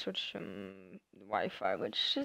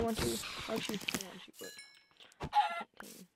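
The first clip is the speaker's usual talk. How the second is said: silly voice; 3 semitones higher, 6 dB quieter than usual. Pretend. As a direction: squeak it at the spider. Talking to a spider in game.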